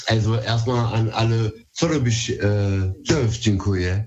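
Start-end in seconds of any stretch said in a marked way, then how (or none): 1.8-4.0 "co robisz", "cześć", "dziękuję" said as Polish words; spoken in Polish. Shown as a demonstration. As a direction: greet the listeners in Polish, casual. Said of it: "das war erstmal auf Polnisch".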